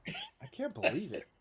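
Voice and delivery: hammed-up attempt at an American accent. Shown as a demonstration. Host attempting a bettor's line on request, mock American accent. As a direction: put on a rough Brooklyn-style American voice. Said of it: "Can you do an American accent?".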